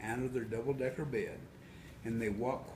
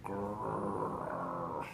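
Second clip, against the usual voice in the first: growl; 4 semitones lower, 3 dB quieter than usual. A narrator's reading. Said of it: "It went grrr".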